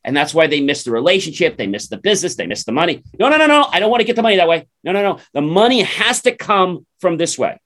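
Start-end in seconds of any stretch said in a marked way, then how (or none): 3.2-7.6 mock stubborn refusal. Imitating people refusing the money.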